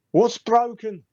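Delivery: high-pitched puzzled shout back; acted high, quizzical voice. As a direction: call it back high, as a baffled character. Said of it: "he looks at you quizzically".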